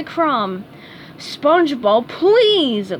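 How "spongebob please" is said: barked. A narrator's reading. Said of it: "barked Squidward".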